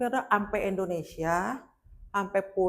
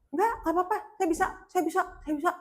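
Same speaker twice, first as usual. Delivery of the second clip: retold insistent refusal; 9 semitones higher, faster than usual. Injured woman refusing the wheelchair.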